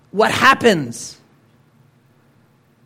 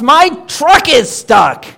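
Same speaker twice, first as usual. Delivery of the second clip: slow, high, louder complaint; angry duck; 4 semitones higher, 4 dB louder, slower than usual. Acted. Angry duck complains about his stuck truck. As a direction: drag it out like a fed-up duck. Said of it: "an angry duck".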